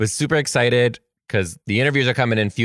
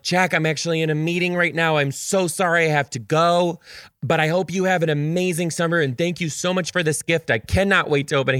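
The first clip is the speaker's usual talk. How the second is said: gentle teacher voice; 6 semitones higher than usual. Retold or imitated. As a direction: let him down gently. Telling the child she must go.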